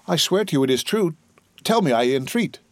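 mildly urgent pleading; earnest entreaty. Acted. Prisoner entreats the gendarme to tell him, earnest plea. Prisoner begs guard for answer.

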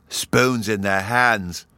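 slow, savoring delight; child savoring the words with glee; ecstatic delight. Acted. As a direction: repeat it in rapture. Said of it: "in an ecstasy of delight".

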